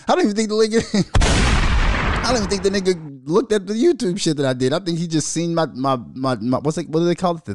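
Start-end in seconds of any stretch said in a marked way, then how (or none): 0.1-4.7 chuckling while talking; laughing through it. Real, not acted. Telling listeners about the friend's reply while laughing. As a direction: laugh it out as you say it. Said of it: "That's what kills me".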